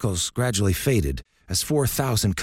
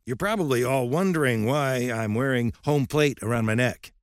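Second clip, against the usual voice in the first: put-on irascible old coach; 5 semitones higher than usual. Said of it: "his voice growing irascible".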